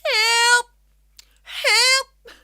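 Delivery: high, very loud yelps of "help"; cry for help. Real, not acted. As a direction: yell out for help at full pitch. Calling out for help.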